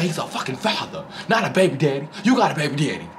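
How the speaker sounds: high voice breaking into laughter; laughing quote. Retold or imitated. Vlogger retelling the line while laughing, high laughing quote. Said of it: "They be say".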